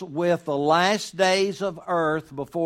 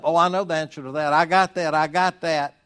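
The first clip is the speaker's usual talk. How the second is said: mock know-it-all, quick and a little louder; sarcastic; 5 dB louder, faster than usual. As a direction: imitate a cocksure know-it-all brushing people off. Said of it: "I say that very sarcastically".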